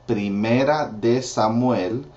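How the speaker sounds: Spanish pronunciation of Primera de Samuel; teacher modelling Spanish; Spanish book name. Shown as a demonstration. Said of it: "Second Samuel is Segunda de".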